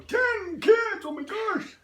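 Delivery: high, loud astonished gasp of a quote; shocked viewer. Retold or imitated. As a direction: play the stunned viewer hearing about ten kids. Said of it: "some of our viewers are going".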